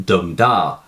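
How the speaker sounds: dum da, the first beat hit hard and the second dropped light; spoken rhythm demo, strong then weak; stressed then unstressed. Shown as a demonstration. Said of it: "the poet uses trochee".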